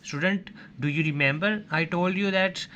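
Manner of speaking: slowly calling on the class, words spaced out; slow address. Shown as a demonstration. Teacher slowly reminding students of an earlier lesson. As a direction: draw the students in, unhurried. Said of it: "addressing students".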